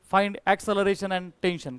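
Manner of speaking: very slow read-out of the question. Shown as a demonstration. Teacher reads question slowly. (प्रश्न हळू हळू वाचत)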